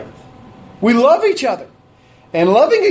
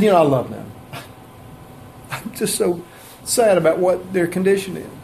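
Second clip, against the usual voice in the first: hammed-up pitying sigh of a voice; mock pity; 5 dB quieter than usual. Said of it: "looked out with pity on us".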